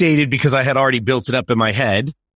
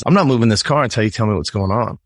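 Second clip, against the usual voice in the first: firm mom. Retold or imitated. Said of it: "And she's".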